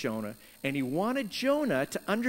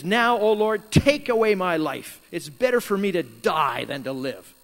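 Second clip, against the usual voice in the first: louder, despairing plea to God; upset Jonah; 6 dB louder than usual. Retold or imitated. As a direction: beg God to take your life, fed up. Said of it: "you gotta be pretty upset".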